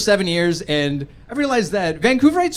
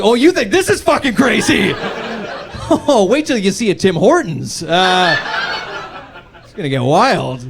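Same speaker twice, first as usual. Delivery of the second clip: giddy mockery; 3 semitones higher, 3 dB louder than usual. Mocking brother, laughing.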